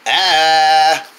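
held, level "aah"; open-mouthed "ah". Acted. Patient told to say ah, held open-mouthed "ah". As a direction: open up and hold the vowel. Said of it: "Say, ah".

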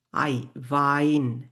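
আই alone, then ভাইন with a "v", drawn out; German pronunciation demo. Shown as a demonstration. Teacher breaks down German word, ভাইন said slowly. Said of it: "এটাকে বলা হচ্ছে ভাইন".

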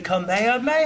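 Krillin. Retold or imitated. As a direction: build up the battle cry and let the end ring out. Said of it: "I've seen Krillin".

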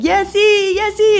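high, loud cheering yell; cheering scream. Retold or imitated. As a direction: cheer her on up the climb. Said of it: "they're screaming".

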